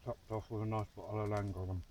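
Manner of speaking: talking through a mouthful of food; mouth full. Real, not acted. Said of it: "'cause I've got a mouthful".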